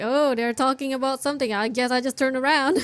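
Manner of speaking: loud, fast hammed-up imitation of a game character; mock character voice. Streamer mocking the game character to viewers, loud and hammy. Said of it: "The character just now went like".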